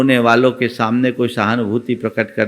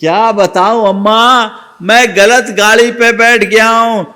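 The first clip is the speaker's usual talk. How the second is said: higher, louder wailing lament; loud wailing answer; 9 semitones higher, 6 dB louder than usual. A narrator's reading. Crying youth telling the old woman, in a loud high wail. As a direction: wail it out in despair. Same line repeated louder.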